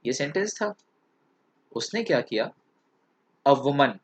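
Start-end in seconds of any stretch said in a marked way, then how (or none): 3.5-3.9 "A woman" set apart as its own phrase; pause after WOMAN. Shown as a demonstration. Teacher shows the girl's colon, pausing after "A woman". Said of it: "इसके बाद लगाया colon".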